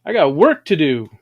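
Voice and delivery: loud, high defiant taunt. Retold or imitated. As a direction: shout it down at death. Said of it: "and said".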